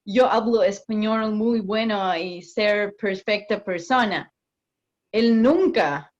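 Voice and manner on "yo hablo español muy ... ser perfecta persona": slow, broken Spanish in a mock American accent; mock gringo accent. Imitating an American who speaks broken Spanish, in an American accent. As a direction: put on an American accent, slowly. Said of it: "si viene un gringo a hablarnos".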